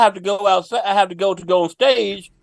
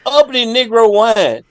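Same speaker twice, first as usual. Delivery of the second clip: ad slogan read. Shown as a demonstration. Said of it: "the best slogan for them".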